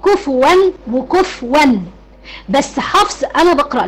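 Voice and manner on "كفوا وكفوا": كفوا first with sukun, kufwan, then with damma, kufuwan, slowly; both readings. Shown as a demonstration. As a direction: set كفوا with a silent ف against كفوا with a u. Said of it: "بتقرأ على الوجهين". (كفوا بالسكون ثم بالضم ببطء)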